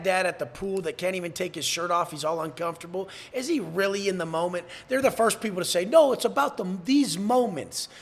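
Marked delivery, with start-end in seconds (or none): 5.8-7.9 lightly mimicked excuse, higher and louder; mock protest. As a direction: mimic a defensive dad, drawing out the last words. Mimicking dads' excuse, then rebuking it.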